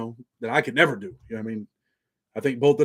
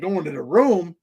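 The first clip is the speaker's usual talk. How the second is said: higher-pitched mock disbelief; incredulous retold question; 4 semitones higher, 4 dB louder, slower than usual. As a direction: throw it back at them in disbelief. Retelling his disbelief at friends quitting.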